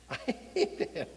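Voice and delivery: breathy mock aside, under the laugh; whispered aside. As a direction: repeat it in a whisper. Repeats king's line after laughing.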